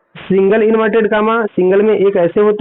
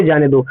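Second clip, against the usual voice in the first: "जाने दो" set apart, lower and falling; after the pause; 4 semitones lower than usual. Shown as a demonstration. Teacher finishing the example after waiting, lower after the pause. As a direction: drop the pitch on "जाने दो" as its own phrase. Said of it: "कुछ second wait करेंगे".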